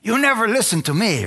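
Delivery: high-pitched mock complaint; retold scolding. Wife berating husband for leaving her, scolding.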